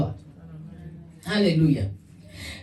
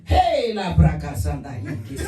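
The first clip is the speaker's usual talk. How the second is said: tongues at manager; 6 semitones lower than usual. Retold or imitated. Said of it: "answer me back in tongues".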